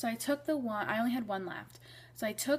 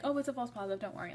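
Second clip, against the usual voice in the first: mock dismissive reassurance; 2 semitones higher, much faster than usual. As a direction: wave it off like an unconcerned mom. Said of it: "not like".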